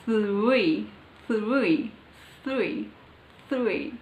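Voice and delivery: THREE with a careful TH gliding into R, drawn out; isolated, deliberate THREE, falling in pitch; careful pronunciation drill. Shown as a demonstration. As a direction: practise THREE slowly, each one on its own. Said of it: "difficult for me to pronounce".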